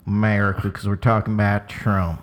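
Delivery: put-on Southern American accent. About to talk about Trump, mock Southern American accent. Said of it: "I'm going back to American".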